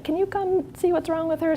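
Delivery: high-pitched imitation of a coworker; lightly acted quote in a high voice; imitated coworkers. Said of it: "the M As were like".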